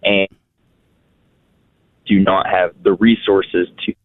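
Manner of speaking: phone line cutting out; bad connection, words dropping out; breaking up. Real, not acted. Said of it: "Sir, you're cutting out very bad".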